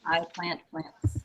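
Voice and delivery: slow, careful example; slow teacher demo; slow model phrase. Shown as a demonstration. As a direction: lay out each word slowly. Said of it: "That's the indicative tense".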